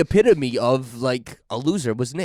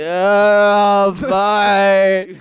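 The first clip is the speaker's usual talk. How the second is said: put-on dazed, spaced-out stoner drawl, high, loud, drawn-out oh; 8 semitones higher, 7 dB louder than usual. Retelling checking on a kid sleeping on the front lawn, imitating Nick being high. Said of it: "This kid was so high".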